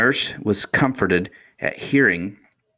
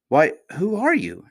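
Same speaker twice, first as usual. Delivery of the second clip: high, indignant question; affronted, pitched up high; offended; 10 semitones higher than usual. A narrator's reading. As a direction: bristle at a stranger's cheek. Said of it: "offended at the freedom".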